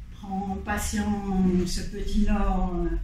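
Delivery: low, slow, booming whale; big whale voice. Acted. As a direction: speak slowly like a huge gentle whale. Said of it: "De sa grosse voix de baleine".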